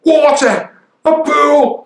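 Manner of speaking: high, loud squeal of glee; child spotting a puddle on the walk; child's delight. Retold or imitated. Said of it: "they go".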